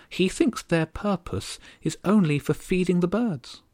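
tiny haughty countess, aggrieved; high regal bird voice. Acted. Countess complaining about the gulls, high and bitter. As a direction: complain like an offended little queen.

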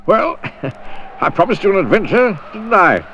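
high, pleased and chuckling; grinning. Acted. Mister Daydream teasing Jack after the escape, grinning. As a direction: say it with a grin. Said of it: "grinned Mister Daydream".

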